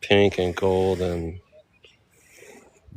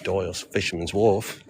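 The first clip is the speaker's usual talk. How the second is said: tentative attempt at an Australian accent; 4 dB quieter than usual. Shown as a demonstration. Tourist testing how locals say it, Australian accent. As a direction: try it lightly in mock Australian. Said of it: "how do you say that in Australian accent?".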